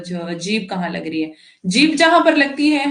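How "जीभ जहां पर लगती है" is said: emphatic. Shown as a demonstration. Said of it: "teacher stressing key point".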